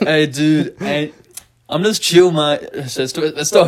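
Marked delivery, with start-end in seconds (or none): 0.0-2.6 put-on British accent sliding into Jamaican; a bad British try that drifts; failed British accent. Attempting a British lazy character, lightly voiced British accent. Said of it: "I was trying to do British".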